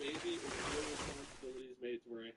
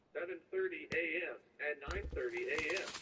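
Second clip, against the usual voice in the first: even, robotic recorded message; automated voice; 2 semitones lower, 5 dB louder than usual. Retold or imitated. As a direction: read it like a phone system. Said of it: "automated voice thing".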